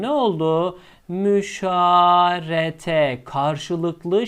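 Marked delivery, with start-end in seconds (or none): 1.1-2.7 Müşarete stretched slowly, syllable by syllable; slow model word. Shown as a demonstration. Arabic teacher presenting Müşarete to students, slow and deliberate. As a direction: lay out Müşarete slowly for the class. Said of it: "teacher introduces derived word".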